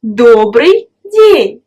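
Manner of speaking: Добрый день said slowly and clearly, syllable by syllable; Добрый день carefully modelled for the learner; slow model phrase. Shown as a demonstration. A teacher slowly models Добрый день for the student. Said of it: "on peut dire tout simplement".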